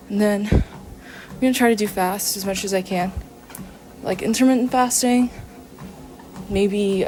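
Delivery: breathless while walking on a treadmill; out of breath on treadmill. Real, not acted. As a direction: talk between breaths mid-workout. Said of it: "Sorry I'm out of breath again on the treadmill".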